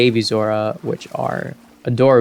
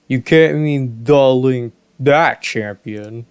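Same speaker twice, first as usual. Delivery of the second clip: slow, mournful disbelief; mildly saddened king. Acted. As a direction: drag it out in grief. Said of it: "my saddened voice just disappeared".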